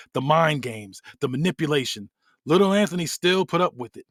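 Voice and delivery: lightly acted, deliberate storytelling promo; measured in-character monologue; wrestler's brooding promo. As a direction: tell your own bitter childhood like a fable. Acts wrestler's promo about his childhood.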